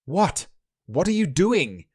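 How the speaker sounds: high-pitched, indignant alarm; alarmed protest. Acted. Accused hunter objects to being searched, alarmed.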